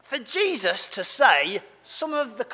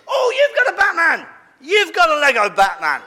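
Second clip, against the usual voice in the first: delighted surprise; 8 semitones higher, 7 dB louder than usual. Real, not acted. Child shows a Lego Batman.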